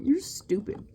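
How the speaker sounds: high-pitched, through a laugh; giggling put-down. Real, not acted. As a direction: say it as a giggle breaks in. Laughs while mocking a quoted objection.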